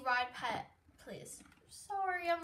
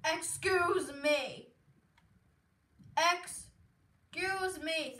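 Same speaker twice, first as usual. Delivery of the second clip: slow excuse me; 3 semitones higher, 3 dB louder, much slower than usual. Real, not acted. Pushing past in game.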